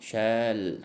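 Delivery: "शैल" with its one vowel held long; drawn-out vowel. Shown as a demonstration. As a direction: sound out "शैल", lingering on the "ai". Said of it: "ए की आवाज़ आ रही है". ("शैल" का "ऐ" लंबा खींचकर)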